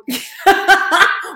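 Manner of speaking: loud, high burst of laughter. Real, not acted. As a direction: laugh out loud at your own joke. Laughs at own cake joke.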